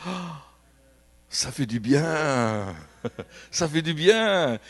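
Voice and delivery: slow, blissful sighing relief with a laugh; relieved and laughing. Retold or imitated. Healed lady laughing with relief after falling. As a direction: let it out like blessed relief. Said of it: "Elle s'est dit".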